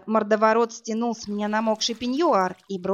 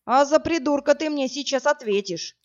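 higher, angry bark; barking threat; 6 semitones higher than usual. Acted. Brute threatening the woman, angry bark. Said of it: "рявкнул мордоворот".

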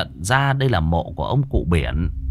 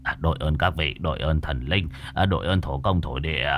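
soft, lower murmured thanks; murmured prayer; 5 semitones lower, 5 dB quieter than usual. A narrator's reading. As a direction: pray softly to the spirits. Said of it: "chắp tay vào bên trong vái lạy". (giọng khấn thì thầm)

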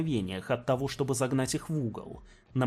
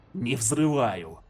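громко; 3 dB louder, much slower than usual. Acted. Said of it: "громко провоксировал".

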